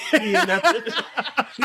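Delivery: said through laughter; laughing while talking. Real, not acted. Laughing repeat.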